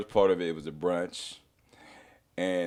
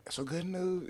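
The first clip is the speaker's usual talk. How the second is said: high, soft voice imitating a sweet wife; 9 semitones higher, 9 dB quieter, slower than usual. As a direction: softly imitate her breaking good news. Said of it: "my wife's so sweet".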